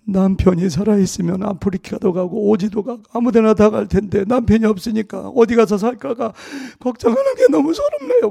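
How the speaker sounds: imitating a crying widow, rising to a very high wail at the end; mimicked weeping, breaking high on the last words; tearful lament. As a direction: retell her grief with a mock sob. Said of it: "막 그러더라고".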